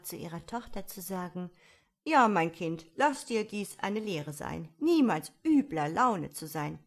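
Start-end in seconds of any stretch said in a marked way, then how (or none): 2.0-6.8 put-on louder, moralising old toad; old toad mother. A narrator's reading. Eine alte Unke teaches her daughter a lesson, moralising. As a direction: lecture a child with emphatic bursts. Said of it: "eine alte Unke".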